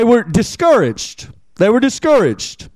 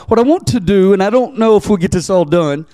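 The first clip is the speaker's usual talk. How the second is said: ordinary talk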